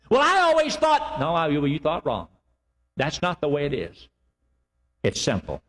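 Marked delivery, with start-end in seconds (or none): 0.1-1.2 protesting doubter. Retold or imitated.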